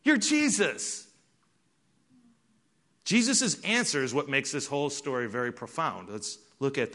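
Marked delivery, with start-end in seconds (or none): 0.0-1.1 slow, aching disbelief; mother stunned and wounded by her son; hurt mother. Retold or imitated. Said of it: "Mary is saying to him".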